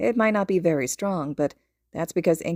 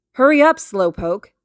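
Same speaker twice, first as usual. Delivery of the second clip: loud, higher taunting shout; boyish yell; 4 semitones higher, 9 dB louder than usual. A narrator's reading. Boy yells impatiently from the window.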